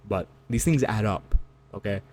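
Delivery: ordinary delivery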